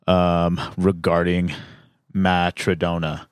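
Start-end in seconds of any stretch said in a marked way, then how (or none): 2.1-3.3 "Matrodona" sounded out carefully as ma-truh-DOH-nuh; tentative, measured "Matrodona"; sounded-out name. Shown as a demonstration. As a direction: try out "Matrodona", stressing the DOH. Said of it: "that's gotta be how he pronounces it".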